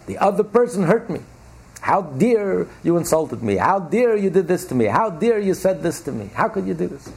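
mock-furious, how-dare-you rant; acting out a hurt, offended person; indignant outburst.

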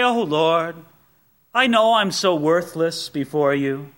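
mock falsely humble sigh of a prayer; a hint of fake piety; phony humble prayer. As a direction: play the self-pleased humble prayer. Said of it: "patting yourself on your back for being so humble".

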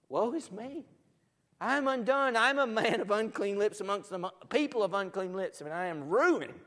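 loud, high cry of dread; acted panic, voice thrown high and loud; Isaiah's alarmed lament. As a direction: wail it out as a man undone. Acting Isaiah's dread on seeing Jesus.

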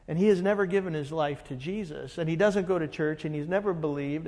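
quick rattled-off list of charges; brisk recital running into babble; rolling it off. Retold or imitated. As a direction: imitate someone reeling off accusations. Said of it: "he starts rolling this stuff off".

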